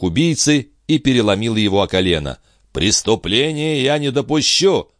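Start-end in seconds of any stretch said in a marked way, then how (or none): 2.7-4.9 warning. A narrator's reading. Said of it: "предупредил он".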